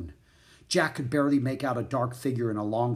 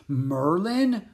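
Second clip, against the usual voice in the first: higher, wondering, half-disbelieving question; breathed amazement; 6 semitones higher, 4 dB louder than usual. A narrator's reading. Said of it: "breathed Jack".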